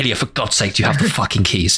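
frustrated shout at a friend; exasperated yell. Retold or imitated. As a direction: bark the demand in disbelief. Exasperated demand for keys.

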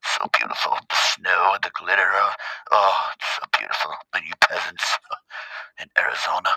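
mock bougie rich guy. Mocking the cousin skiing in Aspen, snooty put-on voice. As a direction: ham up a pampered rich vacationer.

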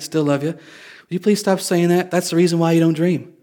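mildly exasperated, loving reproach; imitated parental plea, a touch frustrated; fatherly frustration. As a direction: gently scold like a fed-up dad. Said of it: "a dad can get frustrated".

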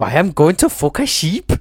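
attempted Welsh lilt; Welsh accent. Copying Welsh for a friend, attempted Welsh accent. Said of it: "do Welsh and I'll try and copy it".

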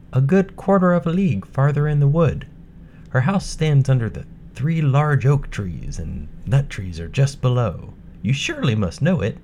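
put-on bright, high young girl; a sweet, polite little girl. Girl answers wolf.

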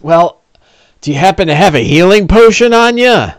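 lightly voiced wheedling orc; a hint of a hopeful beggar orc. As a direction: orc angling for a favor. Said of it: "He goes".

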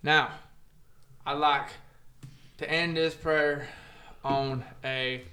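hammed-up reverent prayer voice; mock prayer. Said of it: "bow our heads and do a prayer".

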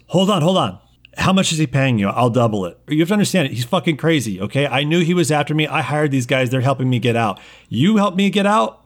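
frightened nerd offering double pay; desperate scientist. Acted. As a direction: plead and bribe fast, scared stiff. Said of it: "Arthur Sutton speaks out again".

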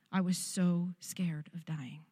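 slow, breathless whisper of real fear; whispered confession. Real, not acted. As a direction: barely voice the fear, slowly.

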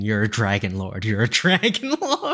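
mock yell held back, rising on the repeat; retold scream. Viewer yelling advice at the television, restrained mock scream. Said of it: "I was screaming at the television".

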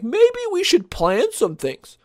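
high, slow, dopey voice; mock Lucasfilm exec. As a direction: play the exec as clueless. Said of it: "they're like".

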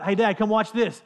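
lightly voiced child calling her dad; daughter asking. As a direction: play the excited kid begging dad to watch. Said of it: "she'll be like".

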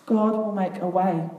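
slow, steady promise; lightly voiced Moses reassuring the crowd; unhurried firm assurance; calm Moses. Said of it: "I don't really have a Moses-type voice".

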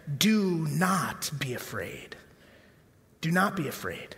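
gentle whisper. Acted. Jesus comforting John, soft whisper.

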